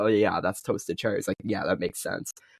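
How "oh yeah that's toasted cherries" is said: ordinary delivery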